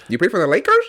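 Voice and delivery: lightly imitated French footballer speaking English; hint of a footballer's foreign English; Mbappe. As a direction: ask it as an incredulous question, rising. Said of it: "what about Mbappe?".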